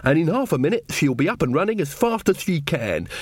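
lightly acted country witch giving orders; lightly voiced witch. Witch instructing a man about a cow pill, lightly voiced rustic.

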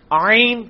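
آئین with the throaty ع from mid-throat; ain from mid-throat. Shown as a demonstration. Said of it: "آپ تھوڑی کوشش کریں آئین بولنے کی".

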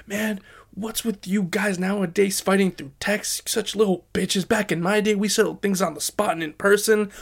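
mock ranting father; berserk dad. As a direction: imitate a dad going off on a rant. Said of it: "my dad goes berserk".

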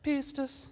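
"Pistis" said high and soft, stress on PIS; Greek pronunciation. Shown as a demonstration. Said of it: "the way it was announced on YouTube".

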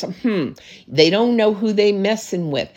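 a touch of smug haughtiness, chin up; lightly mock the proud, superior tone; haughty. Shown as a demonstration. Pastor showing the wrong, prideful way to say it, mildly haughty. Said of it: "But you can't do it with a haughtiness".

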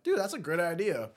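accidental voice crack while enthusing. Real, not acted. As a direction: let the voice crack upward for a moment. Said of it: "Voice crack, by the way".

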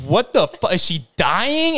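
mock-panicked disbelief; freaking out. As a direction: gasp it out as a frantic question, drawing out the end. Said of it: "I'm, like, freaking out".

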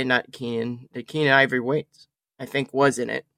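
talking with hiccups; words broken by hiccups. Real, not acted. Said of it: "Man, I got the hiccups".

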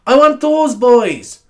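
slow, loud and high, like a show host; loud drawn-out announcing. Pretend. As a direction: belt it out like a big entrance. Wants announcer band fanfare.

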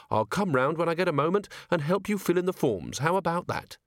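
helpful and lightly lifted; kindly. A narrator's reading. Captain offers to help fill in forms, kindly. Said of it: "said Carrot in a kindly voice".

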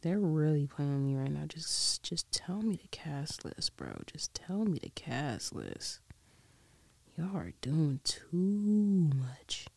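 slow, whispered pleading at the screen; frustrated whisper. Real, not acted. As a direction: grumble it under your breath, slowly. Whispering frustration at search results.

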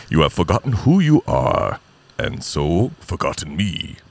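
booming start, slowing to a solemn close; grand father's reproach, drawn out at the end; James Earl Jones. Acted. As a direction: proclaim it like a ghostly lion king. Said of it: "James Earl Jones, man".

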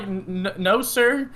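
halting polite denial, rising in pitch; flustered stammer. Retold or imitated. Delivery driver to Southern customer, flustered stammer.

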